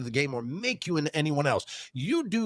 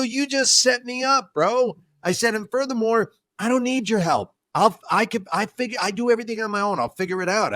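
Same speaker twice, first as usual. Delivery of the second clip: higher-pitched, heated retelling; retold anger; 7 semitones higher than usual. Accusing a friend of double dipping, retold anger. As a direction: act out getting mad at him. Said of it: "why are you getting mad now?".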